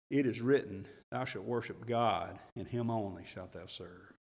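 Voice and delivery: soft, low, meek reply fading away; meekly. A narrator's reading. Jesus answering the devil's temptation, meek and fading. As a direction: answer gently, almost under the breath. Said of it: "meekly and correctly".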